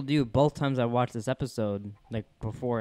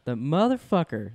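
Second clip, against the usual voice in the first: drawn-out catchphrase. Retold or imitated. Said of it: "using that catchphrase".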